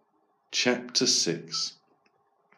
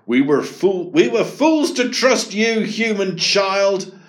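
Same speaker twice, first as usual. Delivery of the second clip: higher, louder reproach; bitter kangaroo; 8 semitones higher, 4 dB louder than usual. Acted. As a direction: accuse the boy. Betrayed kangaroo.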